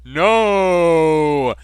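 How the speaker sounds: high loud mock cry; despairing shout. Charlie Sheen refusing the waterboard, hammed-up shout. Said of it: "cried out Charlie Sheen with despairing shout".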